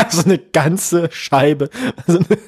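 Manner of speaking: slow, words broken by laughter; laughing. Real, not acted. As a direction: laugh while you say it. Laughing at own joke.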